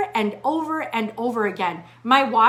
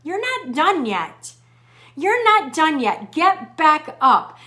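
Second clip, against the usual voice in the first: inner voice; slower than usual. Retold or imitated. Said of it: "a little voice now inside of my head that says".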